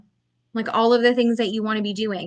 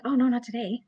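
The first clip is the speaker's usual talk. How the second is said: mock hesitant; 6 dB quieter than usual. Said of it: "saying things like".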